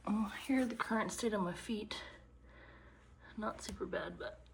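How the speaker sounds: hushed, breathy aside; whispering. Real, not acted. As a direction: whisper it like a secret. Quiet room, feet sore.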